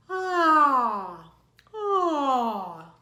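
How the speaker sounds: loud open yawn on ah; a teacher's demo yawn, loud and sliding; yawning sigh. Shown as a demonstration. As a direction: stretch the voice out in a big yawn. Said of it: "Pretend like you're yawning and just go".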